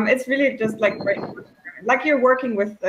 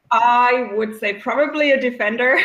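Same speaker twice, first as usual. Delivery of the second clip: laughing through the answer; 4 semitones higher, 3 dB louder than usual. Real, not acted. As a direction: say it while chuckling at yourself. Laughs while naming her boat.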